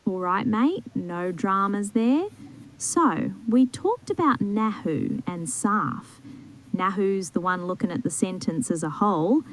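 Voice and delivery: easygoing Aussie tutor voice; Australian accent, relaxed and casual. Pretend. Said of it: "let's say in Australian accent".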